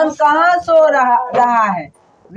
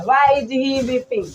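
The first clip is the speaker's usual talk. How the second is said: slow dictation; 3 semitones lower, 4 dB quieter, much slower than usual. Shown as a demonstration. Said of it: "teacher dictates slowly".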